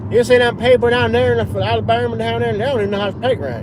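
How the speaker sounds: playful impression of a looking-down-their-nose English onlooker; mock English snob. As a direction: sneer down at Alabamians as a snooty Brit. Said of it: "They're like".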